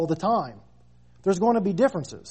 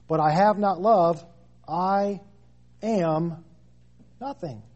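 slow dramatic fade; 2 semitones higher, slower than usual. Acted. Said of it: "slow climax of reading".

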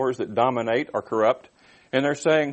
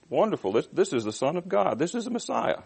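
mock rejoicing; 4 semitones higher than usual. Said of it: "I'm not reading it right".

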